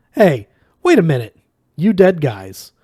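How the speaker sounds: loud, brash, high call; excited shout. Acted. Zaphod shouts at the dead.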